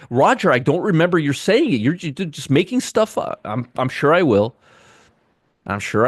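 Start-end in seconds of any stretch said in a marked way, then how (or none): 0.1-3.4 higher, mildly whiny viewer voice; mock the accusing viewer; mock viewer email. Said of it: "I'm still gonna get an email saying".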